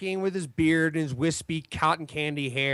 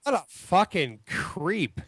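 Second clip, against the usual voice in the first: bad cop; much slower than usual. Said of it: "I'll be good cop".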